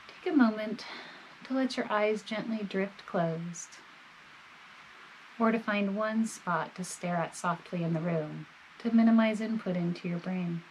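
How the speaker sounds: calm, measured body-scan guidance with long pauses; guided meditation. Real, not acted. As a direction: gently guide the listener, leaving space between phrases.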